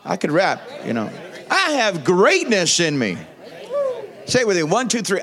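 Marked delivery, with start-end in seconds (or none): 1.5-3.2 a touch more conviction, a little firmer; like you mean it. Shown as a demonstration. Pastor showing the church how to mean it, firmly. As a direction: say it as if you truly believe it. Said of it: "say it like you mean it".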